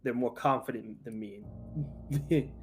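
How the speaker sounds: a lightly held New York Italian-American boxer; casual tough-guy Italian-American bragging; Italian-American accent. Acted. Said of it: "just when I'm talking character".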